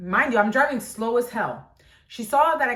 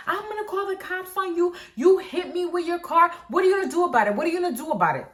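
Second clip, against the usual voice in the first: higher pitched, insistent demands; angry lady; 7 semitones higher, faster than usual. Retold or imitated. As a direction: push her the way the lady pushed. Angry lady quoted in argument.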